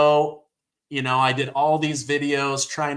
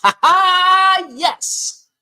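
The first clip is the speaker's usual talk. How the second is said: shrieking high laugh of joy, much higher and louder; delighted laugh; 7 dB louder, much slower than usual. Real, not acted. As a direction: burst out laughing in triumph. Celebrating election results live.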